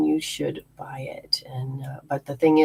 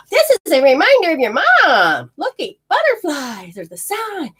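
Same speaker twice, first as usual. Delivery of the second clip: higher, louder bright message; spirit mother message; 10 semitones higher, 4 dB louder than usual. Retold or imitated. Spirit mother sending a reminder to her daughter, high and bright. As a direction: announce it like a cheerful reminder. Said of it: "can we just make something like".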